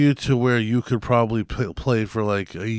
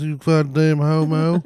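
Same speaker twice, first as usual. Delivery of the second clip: mocking taunt; 7 semitones higher, 5 dB louder, slower than usual. Mock insulting NPC voice.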